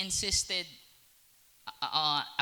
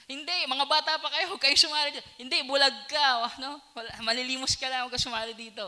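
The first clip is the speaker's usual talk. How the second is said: high, dismissive brush-off; dismissive scolding; 9 semitones higher, 4 dB louder, faster than usual. Acted. Disciples shooing away children and beggar, high and scornful. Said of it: "sinaway siya".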